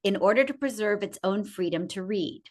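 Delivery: measured reading of a public statement; deliberate, formal recitation; formal read-aloud. Acted. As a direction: read it out like a solemn declaration, each phrase falling away at its end.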